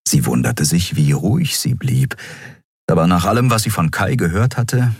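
ordinary delivery

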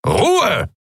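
a high bellowed command. Acted. Admiral silencing a noisy room, bellowing. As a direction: roar for silence over the crowd. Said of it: "brüllte der Skria-Admiral".

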